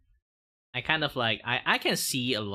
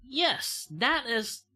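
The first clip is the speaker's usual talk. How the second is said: much higher, slow, put-on soft voice; high breathy-free sweet demo voice; soft cute voice demo; 12 semitones higher, 3 dB louder, much slower than usual. Shown as a demonstration. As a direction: show off a cute anime-style voice. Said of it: "I'm just showing you guys as an example".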